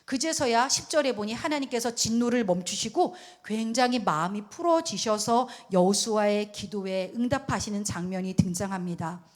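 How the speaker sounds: normal talking voice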